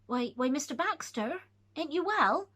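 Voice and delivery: calling out. Acted. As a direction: call up with concern. Calling out to pitiful man.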